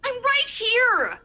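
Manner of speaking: slow eerie voice. Acted. Eerie hidden voice.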